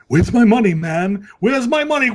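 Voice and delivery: high shouted "Where's my money, man?"; Family Guy quote. Retold or imitated. Friends riffing on Family Guy, loud mock demand. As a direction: yell it like the cartoon thug.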